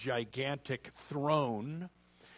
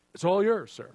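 louder and higher, proclaiming it all; emphatic declaration; 5 semitones higher, 7 dB louder than usual. Acted. Preacher playing the butler telling Hank, proclaimed loudly. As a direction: announce it grandly.

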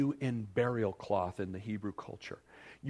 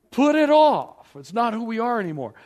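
shouted command; 8 semitones higher, 9 dB louder than usual. Acted. Preacher shouting at an excuse-making Christian, loud and high. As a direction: bark the order at him.

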